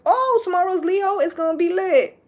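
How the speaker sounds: high, loud, excited announcement; loud mock-excited cheer; hyped self-quote. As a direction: imitate your own hype from yesterday. Quotes own hyped announcement from yesterday.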